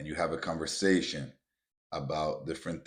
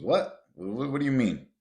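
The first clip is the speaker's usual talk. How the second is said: higher, stammering double take; imitating a friend's shocked what; mock startled stammer; stunned disbelief; 7 semitones higher than usual. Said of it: "And he goes".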